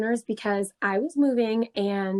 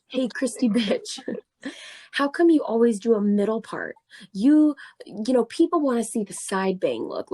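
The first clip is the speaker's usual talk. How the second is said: mock creepy guy; 3 semitones higher than usual. Reading his creepy DMs to friends in a mock sleazy voice. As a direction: ham up the creep's sleazy message.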